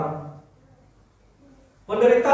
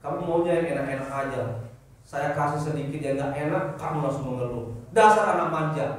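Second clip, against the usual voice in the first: God scolding gently; 5 semitones lower than usual. Retold or imitated. Preacher voices God chiding a complaining believer, lower mock reproach. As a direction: speak as God, unimpressed and lower. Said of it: "kalau udah begitu kata Tuhan".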